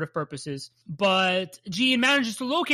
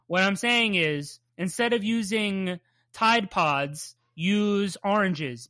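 slow mock emphasis; slower than usual.

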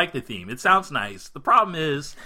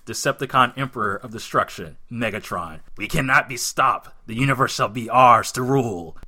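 louder, menacing villain voice; Megatron voice; 5 dB louder than usual. Acted. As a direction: declare it like a tyrant. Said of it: "you be Megatron".

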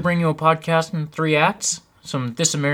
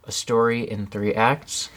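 radio host announcement; 4 semitones lower, 4 dB quieter, slower than usual. Retold or imitated. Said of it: "he's always like".

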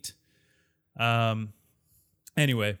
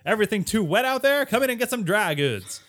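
higher, louder hammed-up shop ad; old-time shopkeeper pitch; 5 semitones higher, 4 dB louder than usual. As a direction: sell dry goods like a corny old salesman. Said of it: "they all sounded like this".

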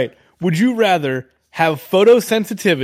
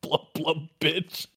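quiet fish voice; 11 dB quieter, slower than usual. Retold or imitated. Repeating fish talk quietly.

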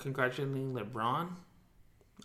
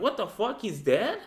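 shocked disbelief; 9 semitones higher, 7 dB louder, slower than usual. Retold or imitated. Retold panicked reaction to news.

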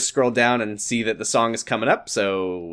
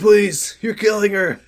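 higher, louder, laughing; laughing plea; 9 semitones higher, 5 dB louder, slower than usual. Real, not acted. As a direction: beg through laughter.

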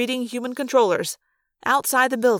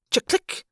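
rifle cock click. A narrator's reading. Rifles being cocked.

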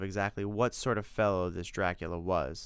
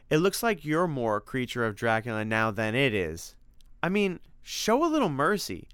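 higher, animated Tim; Tim, pleading for mercy; 4 semitones higher than usual. Acted. Tim defends an ugly creature to Simon, animated pleading. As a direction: urge a friend to calm down.

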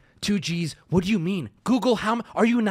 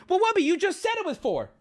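higher, fast mocking kid voice; lightly voiced whiny-kid impression; mock nine-year-old; 4 semitones higher, faster than usual. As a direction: imitate a pedantic child objecting. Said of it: "like a nine-year-old going".

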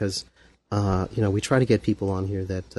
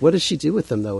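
curious person; 4 semitones higher than usual. Retold or imitated. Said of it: "people will be like".

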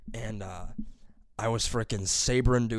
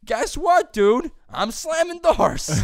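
high, loud sarcastic rant; mock outraged comeback; 11 semitones higher, 5 dB louder than usual. Son retelling his comeback to early-rising mom, mock outraged comeback. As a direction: throw mom's complaint back at her, pitched way up. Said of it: "this is what I did this morning".

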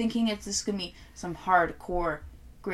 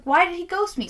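mock whiny caller; 8 semitones higher, 4 dB louder than usual. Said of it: "And she's like".

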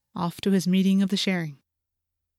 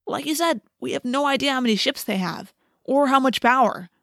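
sceptical friend objecting, pitched higher; Marco; 6 semitones higher than usual. A narrator's reading. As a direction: push back emphatically, lightly voiced. Narrator voices Marco objecting.

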